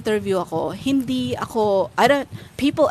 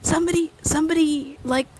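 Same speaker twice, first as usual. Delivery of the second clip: mock-horrified, higher-pitched gasp of disbelief; horrified retelling; 4 semitones higher than usual. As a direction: relive the shock, half laughing. Retelling own horrified reaction to egg. (kunwaring gulat na gulat)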